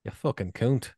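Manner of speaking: "cunt" drawn toward "coont"; accented insult with a rounded vowel in "cunt"; soft cunt. Shown as a demonstration. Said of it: "You spell it C O O T N T".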